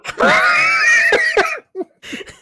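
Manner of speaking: very high, loud shrieking laugh. Real, not acted. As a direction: burst into a screaming laugh. Explosive laugh.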